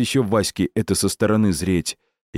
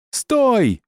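очень высокий, громкий ор; заори во всё горло. Acted. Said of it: "заорал Васька". (громкий ор)

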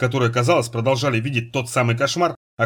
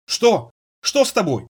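crying out; 7 semitones higher, slower than usual. Acted. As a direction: call out in fright as he collapses. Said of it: "закричала".

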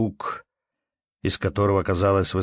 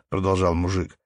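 usual speaking voice

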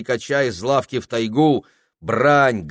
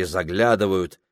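ordinary delivery, nothing marked

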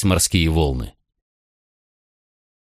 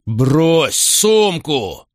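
slow, higher shouted order; the repeated order now snapped out in anger; angry command; 8 semitones higher, much slower than usual. A narrator's reading. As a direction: bark it, losing patience. Macro repeats order, angrier.

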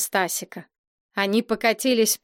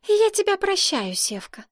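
gracious forgiveness; 11 semitones higher than usual. A narrator's reading. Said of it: "смилостивилась принцесса".

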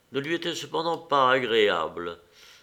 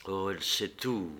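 softer, lower private thought; inner thought; 3 semitones lower, 7 dB quieter than usual. A narrator's reading. Dolly realizing Anna knows everything, soft inner thought. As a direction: think it to yourself, barely voiced. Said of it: "pensa-t-elle".

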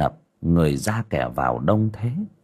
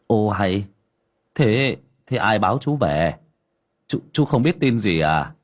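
alarmed exclaiming; 5 semitones higher than usual. Acted. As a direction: blurt the terrible news, climbing higher. Neighbour breaks news of drowning. (người hàng xóm hốt hoảng báo tin dữ)

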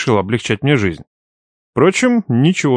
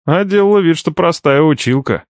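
mock gasp; 6 semitones higher than usual. A narrator's reading. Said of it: "Притворно охнул я".

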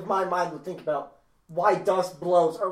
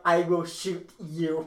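slow, spaced-out mock threat; 3 dB quieter, much slower than usual. Sleeper warning whoever wakes her, slow mock threat. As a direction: drag each word out as a warning.

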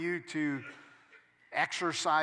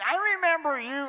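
much higher, louder mock-sing-song jab; mocking gossip; 12 semitones higher, 8 dB louder than usual. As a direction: needle him with a taunting singsong. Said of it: "Don't allow people to keep bringing up things".

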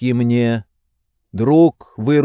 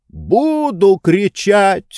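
slow, higher defiant howl; 8 semitones higher, much slower than usual. A narrator's reading. Tarantyev howling defiance at the women, slow high wail. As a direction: drag out the words in a wail. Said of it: "вопил Тарантьев".

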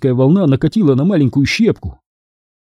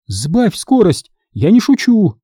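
insisting; 7 semitones higher, slower than usual. A narrator's reading. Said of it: "настаивала миссис Бэнкс".

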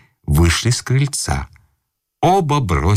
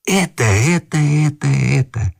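excited yelling; 8 semitones higher than usual. Acted. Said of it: "Что вы орёте?".

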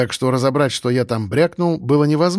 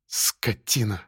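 muttered curse; 4 semitones lower, 8 dB quieter, much slower than usual. A narrator's reading. Woman curses him under breath.

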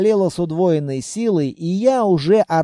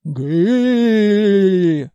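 long drawn-out groaning howl; hammed-up wail; 4 dB louder than usual. A narrator's reading. Patient nearly falls from the barrow, wailing. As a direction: wail as if badly hurt. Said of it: "вопил я".

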